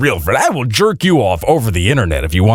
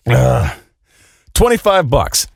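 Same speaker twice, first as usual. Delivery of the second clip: normal talking voice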